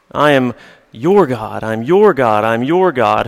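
your leaned on each time, slow; stress on your. Shown as a demonstration. Pastor stressing your as singular: press on your. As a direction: press on your as if to one person.

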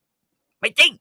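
high, loud angry cry; mother shouts at daughter; furious denial. Acted. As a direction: snap back in rage.

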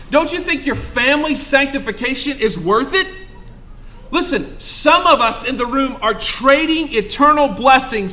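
loud, high impassioned preaching; fervent pulpit exhortation; preaching at full force. Acted.

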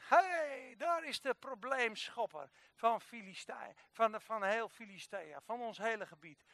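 mildly hammed-up taunting; mock jeering. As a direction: jeer lightly like a crowd, drawing out the words. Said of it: "zitten ze hem uit te lachen".

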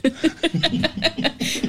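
bright burst of laughter; laughing. Real, not acted. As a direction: laugh openly at the joke. Co-host laughs.

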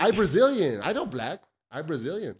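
a hint of the high Silva voice; Anderson Silva impression. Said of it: "a singer's accent".

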